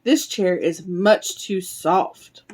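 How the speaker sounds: put-on slow, measured reading to little children; unhurried picture-book narration; storybook reading. A narrator's reading. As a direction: read it slowly, stretching the key words.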